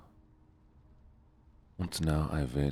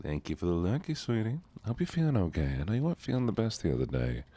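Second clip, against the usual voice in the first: Southern belle thanking viewers, higher; 4 semitones higher than usual. Acted. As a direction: play a doting Southern auntie. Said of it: "Why am I still doing Southern voice?".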